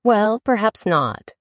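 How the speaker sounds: slow, gentle, placating; calm the mouse down gently; Alice gently calming the offended mouse; soothing. Acted. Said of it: "said Alice in a soothing tone".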